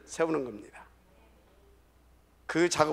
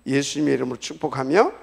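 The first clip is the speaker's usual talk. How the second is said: loud, lower-pitched blessing over the congregation; closing prayer; 4 semitones lower, 7 dB louder than usual. Real, not acted. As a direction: pronounce the blessing forcefully, settling at the end. (힘 있게 선포하는 마무리 축복 기도)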